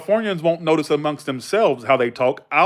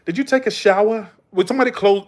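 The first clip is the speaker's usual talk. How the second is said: higher-pitched mock Massachusetts accent; dropped-R Northern accent; crazy Northern accent; 6 semitones higher than usual. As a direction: imitate a New England woman. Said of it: "their crazy accent".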